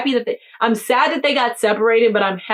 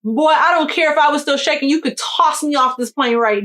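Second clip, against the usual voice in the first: higher and louder, all fired up; excited burst; 7 semitones higher, 3 dB louder than usual. Real, not acted. Telling listeners the plane landed, excited and louder. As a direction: blurt it out thrilled the plane has landed.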